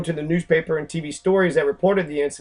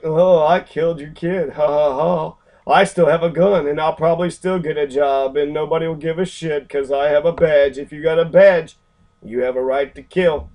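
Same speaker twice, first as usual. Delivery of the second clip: mock smug cop. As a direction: sneer it out like the cop bragging he'll get away. Mocking the officer who shot Ramsey.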